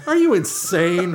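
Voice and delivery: laughing. Real, not acted. Mocking helmet rule, laughing.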